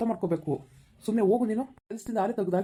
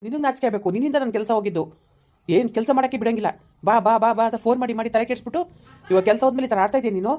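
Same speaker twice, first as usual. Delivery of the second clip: louder, heated accusing shout; angry shouting; 2 semitones higher, 4 dB louder than usual. Acted. Fired man shouting at girlfriend who cost him his job, loud and angry. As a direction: yell the blame right at her.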